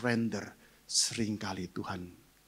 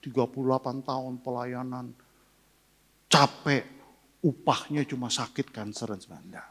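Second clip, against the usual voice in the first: mock grumbling complaint; 4 semitones higher than usual. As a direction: play the complaint he never said, half-hearted. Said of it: "saya nggak marah-marah". (keluhan pura-pura yang menggerutu)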